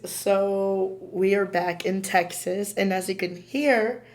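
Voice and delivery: raspy, strained voice; hoarse from allergies. Real, not acted. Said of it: "my voice is all messed up".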